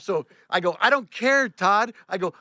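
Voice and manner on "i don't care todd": high, loud dismissal; defiant. Retold or imitated. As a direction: snap back at the boss. Retold quarrel with boss.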